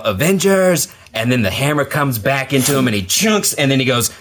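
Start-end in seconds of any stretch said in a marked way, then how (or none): 0.0-0.9 raised, high mock battle cry; Captain America. Retelling Cap rallying the returning heroes, mock yell. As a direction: call out a rallying cry, lightly imitated. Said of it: "you hear Cap yell".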